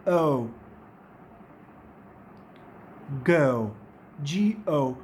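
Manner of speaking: ओ and go low and slow, uh gliding to oo; teacher modelling "go"; diphthong demo. Shown as a demonstration. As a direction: draw out ओ from uh into oo. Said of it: "किस तरह से pronounce करेंगे".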